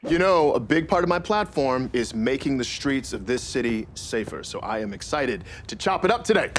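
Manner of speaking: lightly voiced politician; a hint of a campaign speech; mayor voice. Shown as a demonstration. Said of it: "It's fun to play a mayor".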